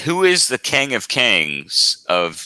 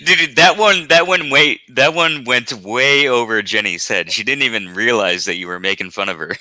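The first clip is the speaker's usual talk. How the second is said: tipsy and giggly. Real, not acted. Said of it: "I'm a little bit tipsy".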